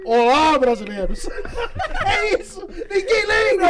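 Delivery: put-on wailing, laughing old president voice; Café Filho impression. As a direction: ham up a tearful old statesman. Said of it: "eu faço a imitação do Café Filho".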